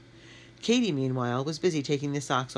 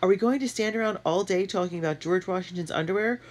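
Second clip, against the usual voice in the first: impatient; 6 semitones higher than usual. A narrator's reading. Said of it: "Matt asked impatiently".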